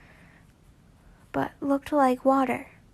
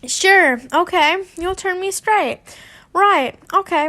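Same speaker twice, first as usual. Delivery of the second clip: louder, higher, laughing through the words; laughing disbelief; 6 semitones higher, 6 dB louder than usual. Acted. Draco mocking Tracy's offer, laughing and louder. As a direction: scoff it out between laughs. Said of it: "Draco laughed".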